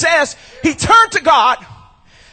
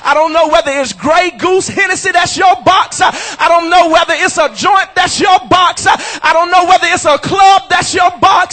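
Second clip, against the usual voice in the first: shouted preaching, pounding every line; preaching at full force. Acted. Pastor preaching to his church, full-force shouted preaching. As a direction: hammer it home like a revival preacher. Preacher drives home the box.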